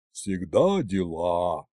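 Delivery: put-on low, slow sighing old man; slow low sighed complaint; weary sigh. A narrator's reading. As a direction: sigh it out tiredly. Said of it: "вздохнул Дед Мороз".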